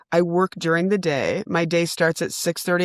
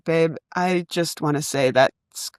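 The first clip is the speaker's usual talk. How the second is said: calm and tired. Retold or imitated. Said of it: "I calmly and tiredly".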